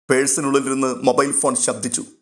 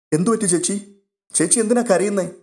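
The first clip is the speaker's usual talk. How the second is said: a lightly voiced girl, higher and anxious; worried young girl; 7 semitones higher than usual. A narrator's reading. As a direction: ask the crying older sister gently, a bit high. Young girl worried about Alina. (ചേച്ചിയോട് ആകുലതയോടെ ചോദിക്കുന്ന പെൺകുട്ടി, ഉയർന്ന സ്വരത്തിൽ)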